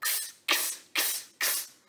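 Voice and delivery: "Ks" as a voiceless k released into a sharp s; strong S sound. Shown as a demonstration. Teacher isolating the consonant, "Ks" as pure voiceless k plus s. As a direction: repeat "Ks" softly with no vowel. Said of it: "S bem mais forte".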